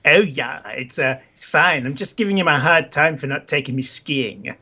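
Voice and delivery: put-on accent, offhand; Isabella. Isabella explains the phone row to visitor, put-on accent. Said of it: "this is the best accent ever".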